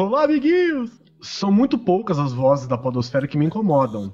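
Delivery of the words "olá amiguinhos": theme park character. Pretend. Kids' host greeting again.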